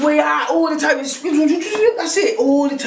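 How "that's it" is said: laughing. Real, not acted. Laughing at a friend.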